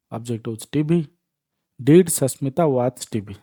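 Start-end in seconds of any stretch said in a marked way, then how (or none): 1.8-3.3 slow teacher read, ଡିଡ୍ stressed first; slow model sentence. Shown as a demonstration. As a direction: spell it out slowly, leaning on ଡିଡ୍. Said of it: "ପ୍ରଥମେ helping verb ଲାଗିଲା". (ଧୀରେ ଧୀରେ, ଡିଡ୍ ଉପରେ ଜୋର ଦେଇ)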